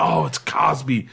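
breathy whisper of dismay; whispered realisation. Real, not acted. Losing the ratings pick to a friend, whispered. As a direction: whisper it as it dawns.

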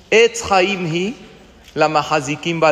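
"Etz Haim Hi" drawn out slowly, rising at the end; slow Hebrew recital. Shown as a demonstration. Rabbi teaching the verse to his class, slow rising recital. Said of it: "Etz Haim Hi es un árbol".

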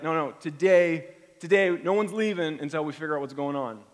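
determined resolve. Retold or imitated. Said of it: "where you're like".

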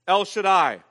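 El Shaddai proclaimed loud and full, both words ringing out; booming proclamation. Acted. Preacher declaring to the congregation God's name El Shaddai, loud. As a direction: call out El Shaddai loudly to the whole room.

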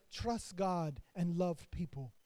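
a light imitation of Miss Amsel's accent, slow and soft. Pastor quoting Miss Amsel's advice, in a light imitation of her accent. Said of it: "Y'all like how I did her accent right there".

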